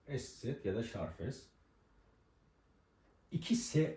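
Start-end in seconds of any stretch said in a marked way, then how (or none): 0.1-1.5 Estset ya da Şarfes repeated slowly and softer. Shown as a demonstration. Teacher repeats the letter names Estset ya da Şarfes slowly. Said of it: "diye geçer".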